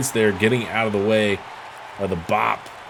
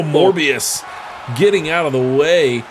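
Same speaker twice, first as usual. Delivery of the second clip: excited call; 5 semitones higher than usual. Real, not acted. Calling a near miss.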